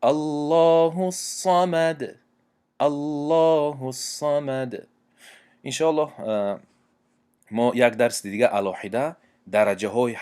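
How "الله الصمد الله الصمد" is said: الصمد chanted slowly and higher, heavy صاد; Quran recitation with full sad. Shown as a demonstration. Teacher reciting the last example of the heavy sad. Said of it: "دیگر مثال".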